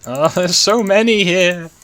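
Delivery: high, loud laughing panic. Real, not acted. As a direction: laugh through it, slowly. Swarmed by creepers laughing.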